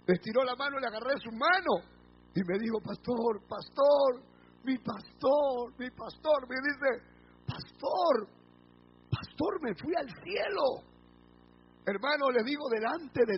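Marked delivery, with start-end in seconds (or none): 2.8-6.5 halting, mildly tearful imitation; retold tearful appeal. Old woman waking and calling her pastor, retold tearfully. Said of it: "se puso a llorar". 7.5-10.8 high, soft, slow imitation of weeping; retold tearful wonder. Revived woman telling her pastor of heaven, tearfully imitated. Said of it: "se puso a llorar".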